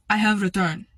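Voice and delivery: imitated Russian-accented customer; thick Russian accent. Rude customer at the counter with a return, Russian accent. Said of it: "She had a very thick Russian accent".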